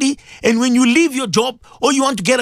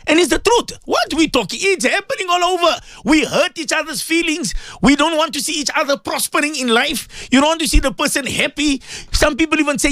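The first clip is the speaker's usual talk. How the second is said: high-pitched, impassioned exhortation; impassioned rebuke; 4 semitones higher than usual. Real, not acted. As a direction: press the rebuke with raised pitch. Indignant rebuke of listeners' behaviour.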